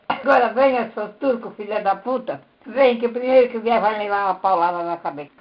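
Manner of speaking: loud, defiant dare; retold challenge. Wife daring husband to come at her, defiant shout. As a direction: threaten him with the stick.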